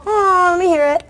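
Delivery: put-on high cooing crowd of kids. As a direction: coo over the puppy like a roomful of kids. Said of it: "They all go".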